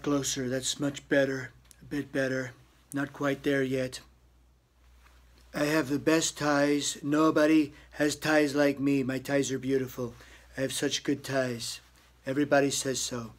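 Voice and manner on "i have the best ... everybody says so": boastful Trump impression. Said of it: "Donald Trump impersonation".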